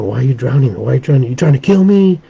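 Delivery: a retold plea, rising into alarm; panicked student. Student being held underwater by his teacher, mock panic.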